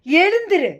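loud, high command to rise; ringing order to get up. Acted. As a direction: call it out with authority, pitch swooping up then falling. Preacher repeats the Lord's command.

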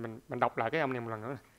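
ordinary talk, nothing marked

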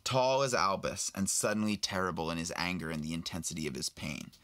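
steady storybook reading, lightly voiced old man; reading a novel aloud. Actor reading Aberforth's lines to a fan host, lightly voiced. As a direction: read the passage to your friend. Reads Deathly Hallows aloud.

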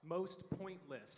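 slow, emphatic "Most pointless." with weight on "Most"; slow correcting repeat, "Most" hit hard; stress on most. Shown as a demonstration. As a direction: spell out "Most pointless" slowly for the mishearer. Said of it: "his wording was most pointless".

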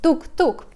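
playful door knock; knocking sound. Shown as a demonstration. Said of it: "doing that on the door".

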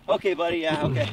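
low, offhand humoring; dismissive dad. Retold or imitated. Coach humoring the kid's big claim, imitated dismissiveness. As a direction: brush the kid off, imitating dad. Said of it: "my dad kinda ignored it".

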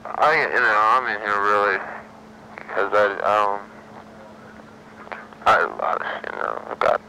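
drugged, slurring words; slurred speech. Real, not acted. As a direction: let the words slur, sedated. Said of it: "I'm so sorry to hear your voice so slurred like this".

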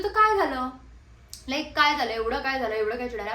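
put-on loud, careless drunk man shrugging it off; drunk man's retort. Drunk man answers the angry actress, loud and careless. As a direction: brush her off with a loud shrug.

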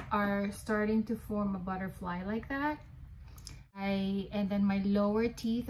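speaking with finger on lip; lip pulled down by finger. Real, not acted. Seen 0: Finger pulls lower lip down to show teeth, then hands cover mouth.

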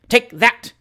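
high, loud battle cry; furious cry. A narrator's reading. Samuel Wilkins yells as he swings his cane. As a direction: strike as you say it. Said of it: "exclaimed Mister Samuel Wilkins".

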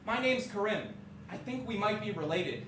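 imitating a posh little boy; lightly put-on posh kid voice. Man mimics kid introducing himself, lightly posh. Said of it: "this posh little voice".

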